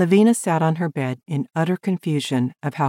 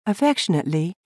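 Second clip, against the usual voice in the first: higher woman's voice, formal; Lavina reading her letter; 4 semitones higher than usual. Acted. Lavina reading her reply to Ted, higher and formal. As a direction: read a polite letter aloud.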